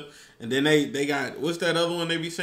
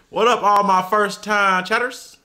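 hype greeting; 3 semitones higher, 6 dB louder than usual. Real, not acted. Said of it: "greeting stream chat".

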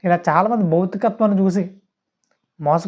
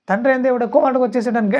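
higher-pitched imitation of insistent shouting; mock shouted claim; 5 semitones higher than usual. Preacher mimicking false teachers' claim, mock insistent call. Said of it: "గట్టిగా అరిచేసినంత మాత్రాన".

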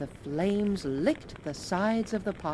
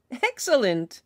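high, loud cheer; shouted; 7 semitones higher, 7 dB louder than usual. Acted. Travelers cheering the child's carrot, high and loud. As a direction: shout it out in delight. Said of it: "shouted the travelers".

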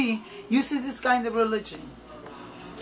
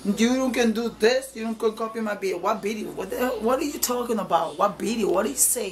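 imitating a tough, argumentative young man; mildly heated mock confrontation; arguing with attitude. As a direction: act out his challenging attitude. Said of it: "that's the way he talked to me".

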